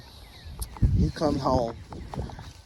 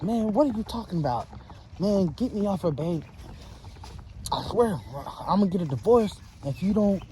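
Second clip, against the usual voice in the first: higher, protesting man's voice; husband tied up, threatening divorce, higher and pleading; voicing the panicked husband; 4 semitones higher, 3 dB quieter than usual. Tied man protests to wife.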